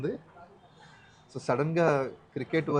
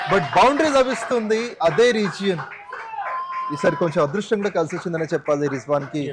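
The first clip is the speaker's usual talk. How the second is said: excited commentary; 2 semitones higher, 6 dB louder than usual. Real, not acted. Commentator calling boundaries and sixes.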